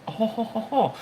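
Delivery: mock laugh. Mocking Tim's truck.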